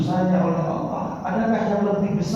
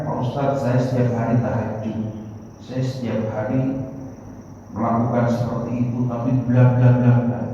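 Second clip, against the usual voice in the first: lower, mock whiny voice of a complaining believer; mocking a complaining congregant; 6 semitones lower than usual. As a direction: mimic a churchgoer boasting about tahajud. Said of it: "Ada yang mengatakan". (meniru jamaah yang mengeluh, suara lebih rendah)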